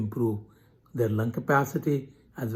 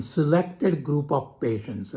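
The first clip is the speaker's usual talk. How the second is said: "selected" picked out with slower, deliberate emphasis; stress on "selected"; 3 semitones higher, slower than usual. Real, not acted. Lecturer limiting the treatment to certain patients, stress on "selected". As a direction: lean on "selected", taking the phrase slowly. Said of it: "I stress the word selected".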